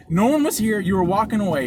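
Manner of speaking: exasperated argument, re-enacted; retold heated comeback. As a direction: act out pressing the point.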